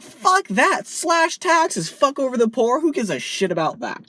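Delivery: hammed-up callous politician; mock Tory shout. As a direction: yell it like a gloating Tory. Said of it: "the Tories are like".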